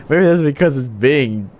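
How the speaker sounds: ordinary delivery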